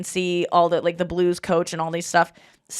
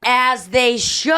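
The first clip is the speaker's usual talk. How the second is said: mock proud mom; 3 semitones higher, 3 dB louder, much slower than usual. Mom's imagined reply, slow.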